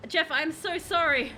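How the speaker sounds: high, panicky exclamations; panicked excitement. Real, not acted. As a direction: yelp in alarm and delight. Riding the dragon, panicking.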